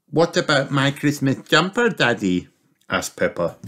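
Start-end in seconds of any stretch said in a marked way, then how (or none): 0.1-2.5 put-on high little girl piglet asking; child piglet wondering where the jumpers are; Peppa's voice. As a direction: ask Daddy in a small high voice.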